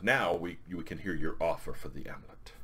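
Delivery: lightly voiced barbarian, settling low and soft; a hint of formal warrior; measured, mildly put-on negotiation; Conan's voice. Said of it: "And Conan goes".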